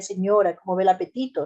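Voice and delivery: courteous, even clinic tone; polite formal address. Shown as a demonstration. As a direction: keep a respectful distance. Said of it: "le diré".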